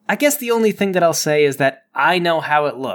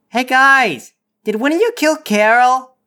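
loud, higher call to the crew; 9 semitones higher, 5 dB louder than usual. Acted. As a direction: shout it down the dock. Calling out to crew on ship.

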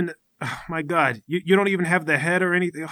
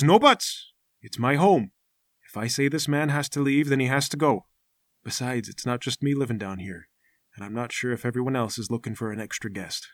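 lower, softer worn-out miner voice; a tired recluse giving in; a hint of a grim hermit; weary old hermit; 6 semitones lower, 5 dB quieter than usual. Mountain man voice again.

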